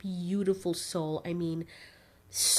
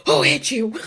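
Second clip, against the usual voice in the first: louder, higher mock demand; dad's protective shout; 6 semitones higher, 10 dB louder than usual. Dad demanding who hurt his daughter, loud and fierce. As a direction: bark it like an angry dad. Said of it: "Daddy, your boy hit me".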